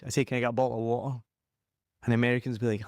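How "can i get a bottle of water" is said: "Can I get a bottle of water?" in a strong Scottish accent, with a dropped t in "bottle". Shown as a demonstration. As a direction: say it like a broad Scot ordering in a shop. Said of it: "if I'm very Scottish".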